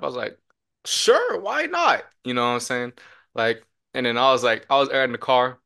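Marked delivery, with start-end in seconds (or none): 0.8-2.0 a mock breezy sure, pitched high; tossing off a casual yes, up high; eager yes. Eager boy accepting the wheel.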